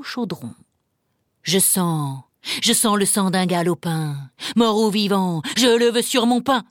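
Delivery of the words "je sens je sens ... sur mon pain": growling ogre. Acted. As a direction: growl it like a hungry giant. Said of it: "gronda bientôt l'ogre".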